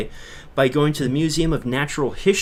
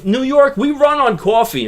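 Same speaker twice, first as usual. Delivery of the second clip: fired up; 11 semitones higher, 7 dB louder than usual. Real, not acted. Hyping New York coffee culture.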